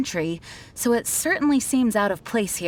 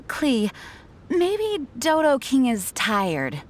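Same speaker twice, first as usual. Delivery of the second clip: put-on slow, gentle and a little higher, easing a child's worry; gentle soothing; 3 semitones higher, slower than usual.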